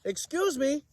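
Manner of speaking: high, small polite cricket voice. Acted. Cricket politely interrupts giraffe, high squeak. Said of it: "coughed a cricket".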